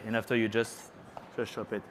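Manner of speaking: ordinary delivery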